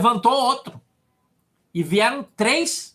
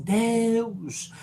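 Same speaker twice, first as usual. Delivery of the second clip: fervent prayer; 4 semitones higher, slower than usual. Retold or imitated. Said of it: "E eu disse assim".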